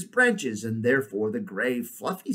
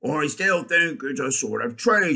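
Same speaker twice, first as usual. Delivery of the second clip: louder warthog voice; stubborn warthog; 3 semitones higher, 5 dB louder than usual. Acted. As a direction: hold to your opinion as the warthog. Warthog figure persists in story.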